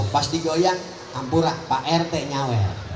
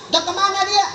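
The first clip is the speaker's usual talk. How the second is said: teasing reply; 13 semitones higher, 5 dB louder than usual. Retold or imitated. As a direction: drag it out to mock the asker. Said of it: "Pas ngomong".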